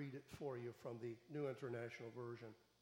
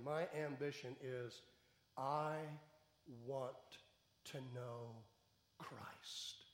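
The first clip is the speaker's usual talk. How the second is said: hushed fading quote; 3 semitones lower, slower than usual. Retold or imitated. Preacher quoting Paul's ambition, fading to a whisper. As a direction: let it fade to a breath on the last word.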